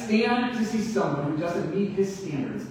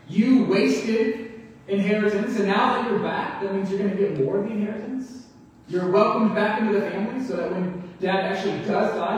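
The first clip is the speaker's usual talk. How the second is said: resentful brother; 3 semitones higher than usual. Retold or imitated. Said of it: "I think he's angry at his brother".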